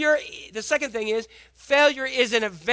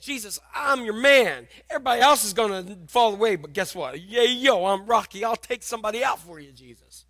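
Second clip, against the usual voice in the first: cocky boast; 4 dB louder than usual. Retold or imitated. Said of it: "He was cocky".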